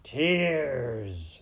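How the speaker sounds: high, loud, long falling cry; rats shouting. A narrator's reading. Rats smelling the mouse's crying, shouting. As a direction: cry the word out as a gleeful pack. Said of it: "shouted the rats".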